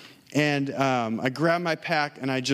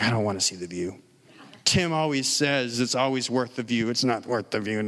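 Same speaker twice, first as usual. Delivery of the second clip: grumpy retort; 2 semitones lower than usual. Retold or imitated. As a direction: grumble it like a sulky hiker. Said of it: "I just wanted to be grumpy".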